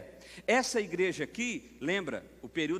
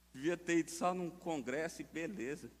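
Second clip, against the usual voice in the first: ordinary talk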